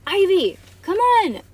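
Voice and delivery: high, loud, eager call; yelling. A narrator's reading. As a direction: holler to a friend over the fence. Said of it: "yelled Bean".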